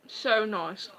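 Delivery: talking through a mouthful; mouth full. Real, not acted. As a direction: say it round a bite of food. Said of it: "I shouldn't talk with my mouth full".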